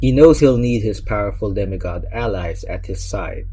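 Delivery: emphatic trailer-style narration; dramatic book blurb read. Acted. Reviewer introducing the book to viewers, dramatic blurb read. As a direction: read it like back-cover copy with suspense.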